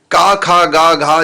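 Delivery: का खा गा घा, each syllable said separately; the ka row, letter by letter; letter recitation. Shown as a demonstration. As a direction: drill the ka row for a class. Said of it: "इसको बोलते हैं कवर्ग".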